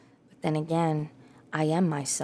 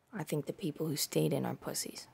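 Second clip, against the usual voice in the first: conspiratorial whisper; whispered aside; 7 dB quieter than usual. Real, not acted. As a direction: whisper it like a secret jab.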